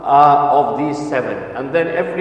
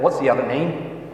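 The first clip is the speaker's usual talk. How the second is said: slower, drawn-out question at normal pitch; repeating the question; slower than usual. Retold or imitated. Teacher asking the puzzled boy once more, slow careful repeat. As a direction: spell it out slowly for him. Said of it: "I, I said".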